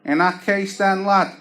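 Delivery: hopeful scrounging plea; cheeky Tony again. Retold or imitated. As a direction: try your luck with a sly high ask. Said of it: "he goes".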